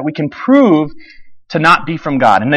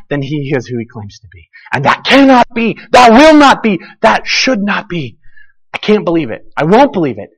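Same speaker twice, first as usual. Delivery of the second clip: rising, insistent inner protest; inner conscience voice; 3 semitones higher than usual. Acted. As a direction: voice their denial building to a challenge. Voicing the Pharisees' conscience.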